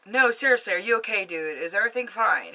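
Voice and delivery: acted-out worried questioning; insistent concern. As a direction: press him to answer. Retold worried check on boyfriend.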